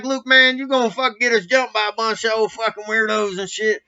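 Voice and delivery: high, loud exasperated scolding of a buddy; hammed-up exasperation at your friend; mock scolding. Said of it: "I was like".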